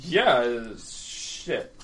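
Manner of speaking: very slow, slurred grumble; slow drunken drawl. Acted. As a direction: drag the words out drunkenly. Drunk NPC agrees.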